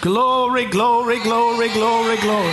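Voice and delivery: high, ringing cries of glory; exultant praise shout. Real, not acted. Preacher praising after a healing testimony, exultant high cries. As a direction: shout praise in a run, easing down at the end.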